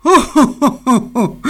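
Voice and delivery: oh oh oh joyeux et plus aigu; rire du Père Noël. A narrator's reading. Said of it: "dit en riant le Père Noël". (rire joyeux du Père Noël)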